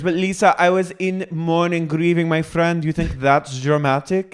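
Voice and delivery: very high, wounded imitation; mock indignant protest. Grieving housewife protesting to her castmate, high mock-wounded voice. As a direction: plead your case in a put-on high voice. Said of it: "She goes".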